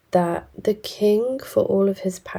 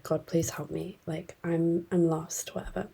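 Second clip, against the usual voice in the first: hushed mock plea; 8 dB quieter than usual. Rabbi pleads to God.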